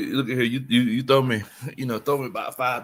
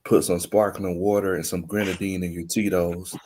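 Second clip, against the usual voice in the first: late night creep voice. Pretend. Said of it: "my late night creep voice".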